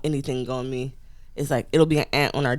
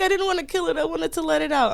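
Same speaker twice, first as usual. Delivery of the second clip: coworker quote; 12 semitones higher than usual. Retold or imitated. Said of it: "He's like".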